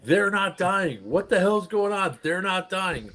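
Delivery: high-pitched mock panic; alarmed disbelief. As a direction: imitate a rattled player protesting. Player's alarmed complaint, acted out.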